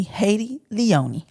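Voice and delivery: slow, drawn-out name reveal; copying the co-host's slow name intro; intro name again. Acted. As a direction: stretch the name out slowly. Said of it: "We did the same thing last episode".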